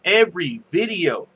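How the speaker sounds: demonstrating a folksy country accent; put-on country accent. Shown as a demonstration. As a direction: pitch it up into a country twang. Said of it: "we're talking like this".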